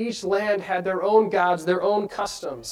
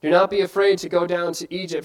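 voice of God; 5 dB louder than usual. Acted.

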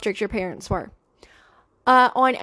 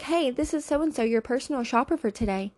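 gushing breathy flattery. Retold or imitated. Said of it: "that's how I read the text".

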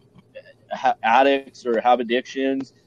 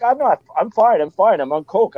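defensive insistence; 5 semitones higher than usual. Retold or imitated. Acts out his drunk, defensive denial.

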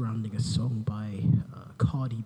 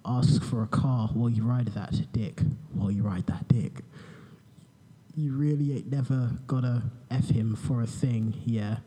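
boring voice parody. Pretend. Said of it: "in my boring voice".

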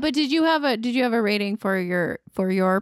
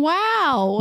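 higher drawn-out Owen Wilson wow; Owen Wilson impression; 7 semitones higher than usual. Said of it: "Owen Wilson saying".

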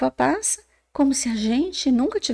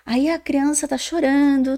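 ordinary delivery

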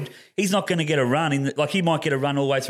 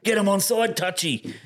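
raised-pitch mock yell; imitated fans' yell; 7 semitones higher than usual. Mimicking fans at the touch judge, mock yelling. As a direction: mimic a crowd heckler calling out. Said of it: "why everyone yells".

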